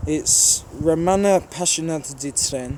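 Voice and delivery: slow, careful Birmingham-accented try at Romanian; reading a Romanian username aloud, slowly sounding it out; attempted Romanian. Shown as a demonstration. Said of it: "that's the best Romanian I can do".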